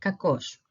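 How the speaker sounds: "Kakos" with stress on the o; Greek pronunciation demo. Shown as a demonstration. Teacher showing how it sounds altogether, careful Greek pronunciation. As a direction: model "Kakos" clearly as ka-KOS. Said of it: "it sounds like this".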